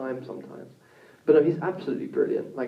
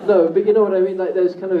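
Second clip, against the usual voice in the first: laughing; 5 semitones higher, 9 dB louder, faster than usual. Real, not acted. Laughing at his own joke.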